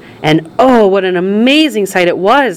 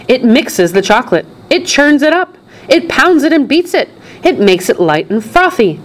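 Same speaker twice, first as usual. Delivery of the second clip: rising, eager showman's list; excited explaining; 8 semitones higher than usual. A narrator's reading. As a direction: build the list with mounting enthusiasm. Wonka extols the waterfall.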